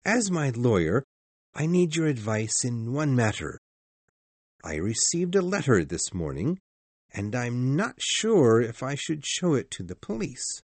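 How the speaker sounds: low, composed doctor voice; calmer voice. A narrator's reading. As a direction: calmly confide in your lawyer. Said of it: "continued in a calmer voice".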